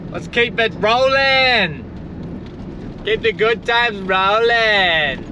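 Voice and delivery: high, stretched-out joyful gushing; ecstatic outburst. Real, not acted. Vlogger gushing to viewers about his day, ecstatic high outburst. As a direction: burst with real joy over the perfect day. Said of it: "sorry for the outburst".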